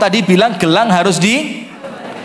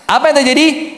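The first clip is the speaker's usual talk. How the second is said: lively storytelling; 9 semitones higher than usual. Retold or imitated. Retelling the husband's relief.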